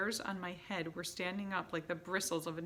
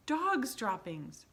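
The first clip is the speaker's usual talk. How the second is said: slow, louder disgusted yell; 5 semitones higher, 6 dB louder, slower than usual. A narrator's reading. Witch Mildred alerting the room with a yell. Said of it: "she yelled".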